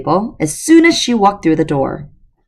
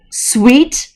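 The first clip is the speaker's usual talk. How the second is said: higher and louder, incredulous; loud indignant echo; 7 semitones higher than usual. Acted. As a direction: throw the word back in disbelief. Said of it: "Connor said loudly".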